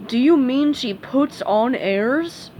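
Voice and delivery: slow, dopey questioning voice; slow puzzled starfish. Acted. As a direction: puzzle it out slowly.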